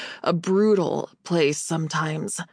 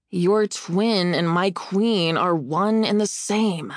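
bitter. Acted. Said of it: "I said bitterly".

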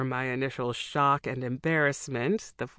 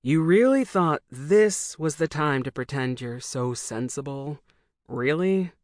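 scoffing. Acted. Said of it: "Matt scoffed".

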